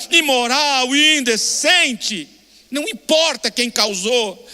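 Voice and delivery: fervent preaching. Acted. Pastor urging the congregation to cry, fervent. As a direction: press the point home with full conviction. Impassioned sermon climax.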